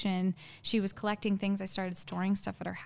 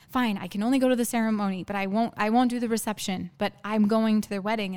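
firm, louder retold argument; defiant insistence; 6 dB louder than usual. Woman retelling her stand in a fight over a wedding, defiant. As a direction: push back firmly, raising the volume.

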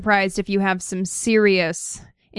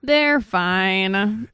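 catchphrase. Retold or imitated. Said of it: "And Brittany says".

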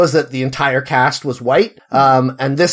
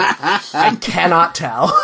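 slow, laughing admission; amused giving up; 2 semitones higher, much slower than usual. Real, not acted. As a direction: say it slowly through a laugh. Laughing at bad accent.

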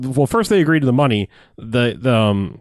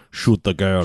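mock villain order; 6 semitones lower, slower than usual. Villain orders the woman shot, low mock command.

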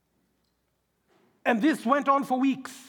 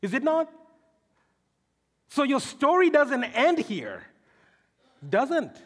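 emphatic, raised preaching voice; forceful preaching; 3 semitones higher than usual. Acted. Preacher assuring the congregation their story isn't over, forceful preaching. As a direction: drive each point home to the congregation.

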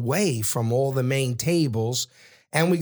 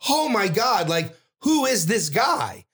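mock disbelief at a newcomer; retold astonishment; 6 semitones higher than usual. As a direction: stretch out the incredulous question. Retold amazement at table guest.

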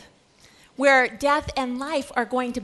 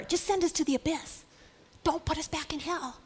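soft, high pleading; mock plea of frightened spirits; pleading demons; 4 semitones higher, 6 dB quieter than usual. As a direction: beg quietly in a raised voice. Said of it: "They pleaded with him".

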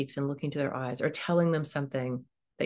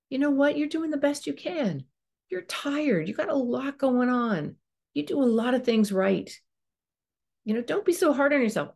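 higher, gentle encouragement as if to a dear friend; a tender, much higher pitched pep talk to yourself; kind friend voice; 8 semitones higher than usual. Shown as a demonstration. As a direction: lift the voice and comfort yourself kindly. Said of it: "step into kind of a different voice".

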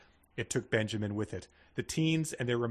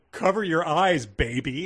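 raised, higher-pitched narrated yell; yelled warning; 4 semitones higher, 7 dB louder, slower than usual. A narrator's reading. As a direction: shout a protective warning. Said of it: "Anthony yelled".

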